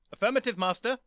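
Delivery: high, loud robotic report. Acted. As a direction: answer like a robot dog. K9 replying.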